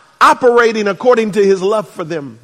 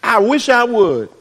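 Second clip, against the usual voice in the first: sassy retort. Retold or imitated. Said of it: "a sister whose attitude is".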